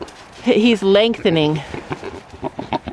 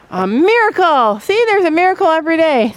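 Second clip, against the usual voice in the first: mock amazement; 7 semitones higher than usual. Real, not acted. Teasing husband.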